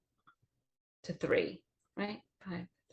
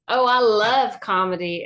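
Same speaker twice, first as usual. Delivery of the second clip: louder, gushing quoted reply; retold enthusiasm; 3 semitones higher, 5 dB louder than usual. Retelling the customer's delight in comedy, enthusiastic. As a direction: quote an eager fan, a bit big.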